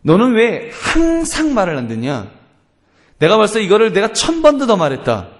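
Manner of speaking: acted exasperated grandparent; exaggerated scolding. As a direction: scold a child in sweeping exaggeration. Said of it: "그 말을 과장하는 겁니다".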